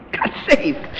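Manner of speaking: whispery acted aside; whispered mock wonder; hushed mock exclamation. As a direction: breathe it out under the voice. Repeats it hushed after laughing.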